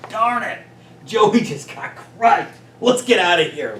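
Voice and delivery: high, loud, panicky bug, slow on Joey; fleeing bug warning the others; scared cartoon bug. Bugs peeking round a corner, panicked high cartoon voices. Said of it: "bugs peeking over a corner like".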